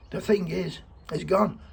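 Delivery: urging listeners while fighting tears; real emotion welling up in a heartfelt plea; getting emotional. Real, not acted. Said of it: "can feel me saying getting emotional".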